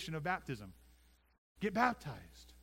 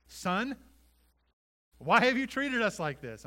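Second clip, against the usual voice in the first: higher and much louder mock scolding mother; exasperated mother; 6 semitones higher, 9 dB louder, slower than usual. Mary scolding twelve-year-old Jesus, loud exasperated. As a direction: call out to a runaway son in alarm. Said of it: "his mother said to him".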